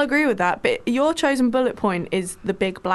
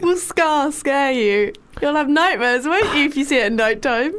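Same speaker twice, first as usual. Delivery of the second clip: teasing; 4 semitones higher than usual. Pretend. Co-host teases about being scared.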